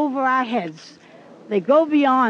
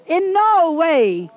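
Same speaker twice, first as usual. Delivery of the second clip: solemn divine message. Retold or imitated. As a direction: relay a heavenly message word by word. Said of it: "which means to listen and repeat".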